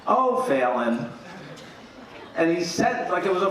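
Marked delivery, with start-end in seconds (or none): 0.1-1.1 Fiona's voice. Retold or imitated. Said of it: "uses Fiona's voice".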